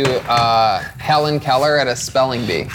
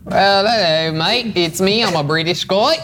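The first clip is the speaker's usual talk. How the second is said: put-on British accent; 6 semitones higher, slower than usual. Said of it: "posh British accent go around".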